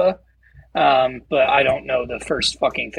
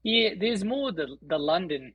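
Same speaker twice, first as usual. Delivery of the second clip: attempted London accent, lightly Aussie; slow, soft London accent slipping into Australian; London accent gone Australian; 6 dB quieter, slower than usual. Shown as a demonstration. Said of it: "That was very Aussie".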